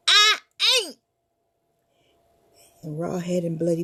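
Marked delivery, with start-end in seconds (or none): 0.1-1.0 put-on high frightened boy; squeaky defiant denial; high panicky no; scared refusal.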